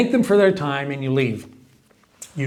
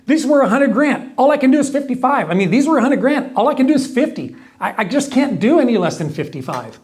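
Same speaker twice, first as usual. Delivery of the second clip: pushy mock salesman pitch, higher; sleazy salesman; 5 semitones higher than usual. Sleazy salesman pitching a price to a homeowner, higher. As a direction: play the sleazy seller, rising and pleading. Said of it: "I would say something like this if I was sleazy".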